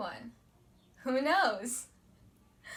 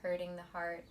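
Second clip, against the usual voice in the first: soft, measured meditation teacher voice; quiet, unhurried guidance; guided meditation; 4 dB quieter than usual. Acted. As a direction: ease them into calm, leaving long pauses.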